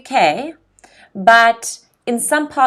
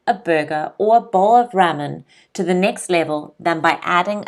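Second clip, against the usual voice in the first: measured teacher's read-aloud; careful model reading, phrase by phrase; article read aloud. Shown as a demonstration. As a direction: read clearly so learners can follow along. Reads article aloud for learners.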